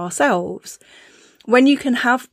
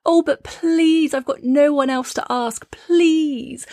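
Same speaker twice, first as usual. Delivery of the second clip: pleading friend; 6 semitones higher, slower than usual. Retold or imitated. Friend begging for help.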